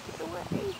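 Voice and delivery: high, startled get away; real nervous shriek at a bee; scared shooing. Real, not acted.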